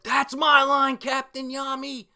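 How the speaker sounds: high, loud hero voice; cocky hero. Retold or imitated. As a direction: fire it back with bravado. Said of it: "Asta's like".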